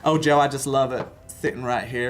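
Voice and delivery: put-on playful Southern accent; thick Southern accent. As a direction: imitate an old Southern gentleman. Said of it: "thick Southern accent".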